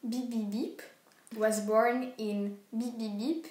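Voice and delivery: beginner's French-accented English, a bit slow. Real, not acted. Reading an English first line to her sister, French accent. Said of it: "désolée pour mon accent anglais".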